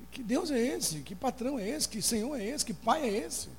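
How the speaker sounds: high-pitched pleading questions, each one pushed up; anguished complaint to God. Retold or imitated. Preacher reliving his fight with God, high anguished questions. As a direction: cry out at God who makes no sense. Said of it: "fui pro quarto brigar com Deus".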